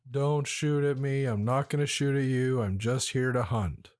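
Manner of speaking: dry, flat monotone delivery. Retold or imitated. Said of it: "in a very dry, very monotone way".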